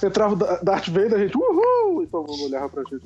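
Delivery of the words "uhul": excited cheer. Retold or imitated. Cheering at Darth Vader in cinema.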